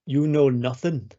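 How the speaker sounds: a lightly put-on northern English Stark line; northern English accent. Co-host tries a northern English Stark accent. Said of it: "it's a Stark accent".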